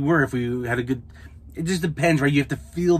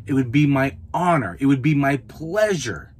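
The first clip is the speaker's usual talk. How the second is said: gracious service voice. Shown as a demonstration. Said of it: "That's how I'm talking".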